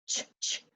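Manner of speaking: a voiceless, repeated "Ch, ch, ch" with a crisp burst; digraph sound. Shown as a demonstration. Teacher sounding out the digraph for second graders, voiceless "Ch". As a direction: tap out "Ch" as the digraph sound, three times. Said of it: "Digraph C H".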